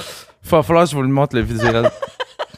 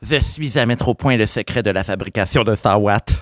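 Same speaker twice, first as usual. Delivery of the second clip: mad scientist; 3 semitones higher than usual. Acted. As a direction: play a frantic kid savant shooing people out. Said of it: "Ça, c'était mon, euh, mon intro".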